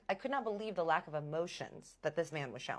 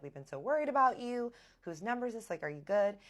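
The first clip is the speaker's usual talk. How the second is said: higher-pitched, concerned questioning; lightly acted flood of worried questions; worried peppering; 5 semitones higher, 3 dB louder than usual. Worried questions to missing friend.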